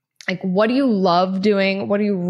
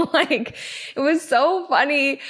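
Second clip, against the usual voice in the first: higher, giggly; still laughing; 6 semitones higher than usual. Real, not acted. Recalling the bird poop story, giggling. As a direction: let the laugh carry the words.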